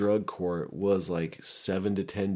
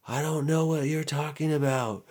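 high, put-on protest of innocence; mock innocent denial; 8 semitones higher than usual. Suspect answering cops about drugs, mock innocent denial. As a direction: play dumb in a raised, put-on voice.

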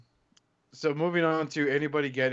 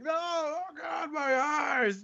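mock horror; 14 semitones higher, 3 dB quieter, much slower than usual. Mock horror at friend's look.

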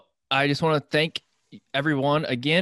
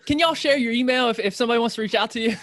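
playful southern twang; 10 semitones higher, 4 dB louder, faster than usual. Pretend. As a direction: ham up a country y'all. Jokey y'all after dialect banter.

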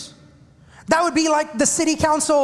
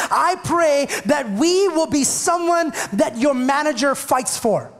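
rising to a full preaching shout, slowed; 3 semitones higher, slower than usual. Acted. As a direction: call it out over the congregation, slowly.

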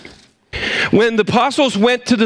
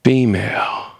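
female; 9 semitones lower, slower than usual. Shown as a demonstration. Contrasting male and female.

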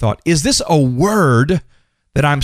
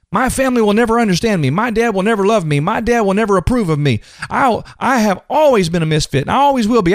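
higher-pitched mock self-pity; playing the victim; 5 semitones higher than usual. Preacher imitating people's negative self-talk, as a put-upon victim. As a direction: act out a string of poor-me complaints. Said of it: "Victim, victim, victim".

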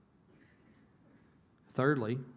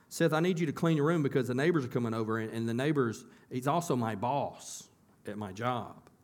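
weightier parent order. Retold or imitated. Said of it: "I'd carry a little bit more weight".

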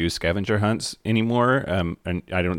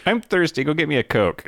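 mock demanding voice; 7 semitones higher than usual. Acted quote, masturbation gag.

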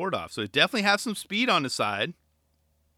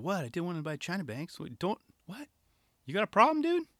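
imitated defensive skater; 3 semitones higher, 4 dB quieter than usual. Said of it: "he's like".

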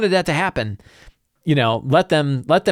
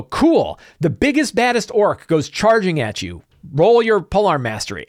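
higher, eager game master calling the charge; excited DM narration; 4 semitones higher than usual. Acted. Game master announcing the biggest orc charging the player, eager and higher.

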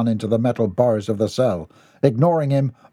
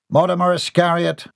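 summoning call; 7 semitones higher than usual. Acted. Warden calling a prisoner.

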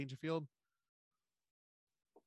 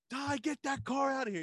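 high-pitched, put-on bossy voice; mock-irate command, pitched way up; movie character's order; 11 semitones higher, 3 dB louder than usual. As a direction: order someone off in a comic impression. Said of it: "and he's like".

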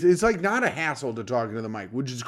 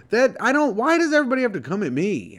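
mock indignant; 6 semitones higher, faster than usual. Mock outrage at review insult.

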